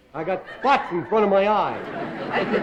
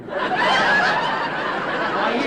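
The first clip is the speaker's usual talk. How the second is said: squeaky high; 4 dB louder than usual. Acted. Squeaky exclamation in comedy bit.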